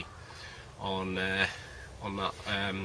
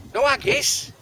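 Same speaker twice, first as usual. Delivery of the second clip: high, loud mock outrage on no haggis; indignant outburst; 12 semitones higher, 8 dB louder than usual. Real, not acted. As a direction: shout no haggis like you've been robbed. Indignant repeat of missing item.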